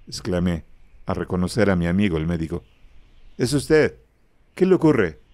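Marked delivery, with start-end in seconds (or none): 3.4-5.2 alarmed surprise. Acted. Alarmed exclamation meeting the doctor.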